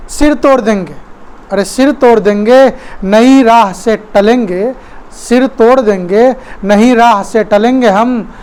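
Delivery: declaimed verse with deliberate pauses; poem recitation. Acted. Dancers defying the motorist, recited as verse. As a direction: recite it rhythmically, line by line.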